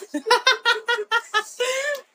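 high, bursting laugh at the sister's outfit; burst of laughter. Real, not acted. (gargalhada aguda e solta)

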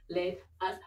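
high, loud, drawn-out rallying cry; psyched up. Real, not acted. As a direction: pump yourself up loudly. Psyching up before the sit-ups.

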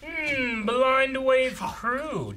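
slow reading. Acted. Reading package label oddly.

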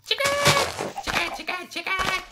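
loud, high-pitched yells after chickens; excited calling out. Real, not acted. Spots chickens and calls after them.

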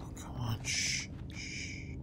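soft shush to stay hidden; hushing. Real, not acted. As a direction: hush yourself quietly. Shushing while hiding.

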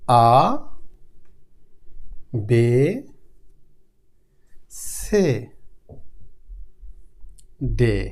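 আ, বে, সে, দে said low, each rising at the end; German alphabet. Shown as a demonstration. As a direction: chant আ বে সে দে with a rising tune. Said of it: "এ থেকে H পর্যন্ত".

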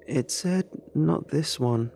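put-on light child voice; little girl voice.

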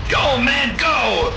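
shouting. Real, not acted. Urging teammates in the game.

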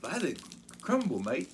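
high-pitched, badly faked Australian accent; attempted Australian accent. Shown as a demonstration. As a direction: put on a hammy Aussie accent. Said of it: "hard to do an Australian accent".

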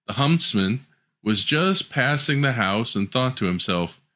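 usual speaking voice

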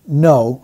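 weighted no; imitated emphatic no. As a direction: lean on no firmly. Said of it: "an emphatic no".

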